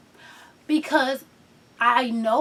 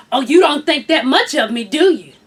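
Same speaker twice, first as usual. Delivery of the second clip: sassy attitude; 5 dB louder than usual. Retold or imitated. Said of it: "too much attitude in my voice".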